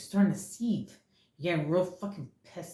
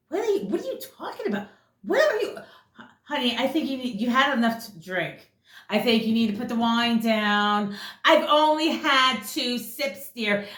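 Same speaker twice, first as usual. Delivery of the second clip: much higher, lightly voiced defensive partner; mock partner voice; 5 semitones higher, 3 dB louder than usual. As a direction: play the innocent partner, a touch mocking. Voicing the partner in argument.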